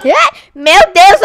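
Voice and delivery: shocked yelp, then a breathless "my God"; startled gasp. Real, not acted. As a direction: jump out of your skin mid-word. Player startled by monster in game.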